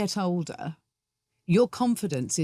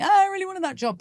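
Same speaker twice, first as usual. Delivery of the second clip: high, wailing mock disappointment; disappointed auditioner; 14 semitones higher, 4 dB louder, faster than usual. Guest voicing an actor who lost the job, mock disappointed. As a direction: open high on a mock-regretful "oh". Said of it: "and you think".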